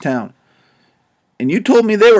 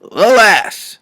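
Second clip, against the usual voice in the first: a sighing, theatrical alas. A narrator's reading. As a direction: let it out as a heavy mock sigh. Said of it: "holds his sighs and says".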